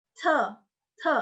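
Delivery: te with a puff of air on the t; short Mandarin te, strongly aspirated. Shown as a demonstration. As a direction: breathe out on the t of te. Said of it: "Ada aspirasi".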